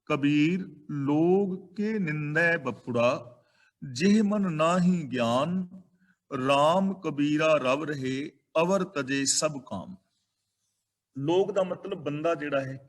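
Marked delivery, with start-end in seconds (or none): 0.0-10.0 slow, measured verse reading; scripture recitation. Acted. Preacher reads Kabir's verse to listeners, slow scripture recitation. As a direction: recite it slowly, drawing out each word.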